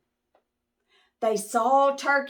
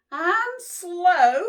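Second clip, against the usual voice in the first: high, louder relieved squeak; porcupine voice; 10 semitones higher, 6 dB louder than usual. Acted. Porcupine relieved to see Moose, high squeak. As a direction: pop out and recognize friends.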